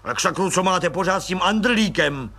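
mild impatient outburst; a touch of an irritated colonel; impatient snap. Acted. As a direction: bark it out, fed up with the same name. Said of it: "utrhl se netrpělivě plukovník".

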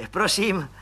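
high, eager voice of a fawning little clerk; fawning little policeman. Acted. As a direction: squeak up importantly like a nosy petty cop.

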